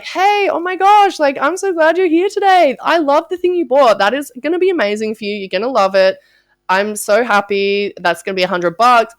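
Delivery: high, loud, gushing delight; a hammed-up overjoyed shop clerk; gushing cashier. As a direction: pour on the over-the-top cheer.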